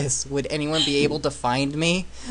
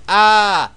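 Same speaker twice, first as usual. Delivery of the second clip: sudden loud shout; startled yell; 7 semitones higher, 11 dB louder than usual. Acted. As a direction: yell in surprise. Sudden yelled outburst.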